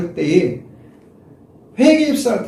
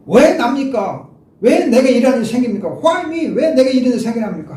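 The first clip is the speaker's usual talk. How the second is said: retold anguished complaint, pitched higher; protesting outcry; 6 semitones higher, 3 dB louder than usual. Bereaved man arguing with God, acted-out higher-pitched protest. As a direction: plead and argue, acting out his protest. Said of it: "하나님께 울부짖었어요. 불평했어요. 따졌어요".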